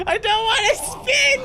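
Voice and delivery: high, loud panicked yelps; panicked screaming. Real, not acted. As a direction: scream while being spun. Being spun around in game.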